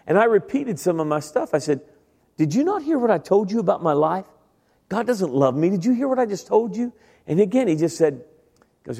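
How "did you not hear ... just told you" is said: high-pitched, disbelieving protest; incredulous. Retold or imitated. Student repeating himself to a kind stranger, incredulous. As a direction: press him, unable to believe his reply.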